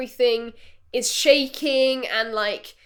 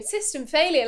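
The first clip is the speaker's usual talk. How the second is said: automated voice; 3 semitones higher than usual. Retold or imitated. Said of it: "the woman on the automated voice".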